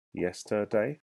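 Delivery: "Yesterday" slowly in three parts; split into syllables. Shown as a demonstration. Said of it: "has three parts".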